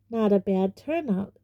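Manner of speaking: mildly self-satisfied host; proud. Acted. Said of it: "said Nearly Headless Nick proudly".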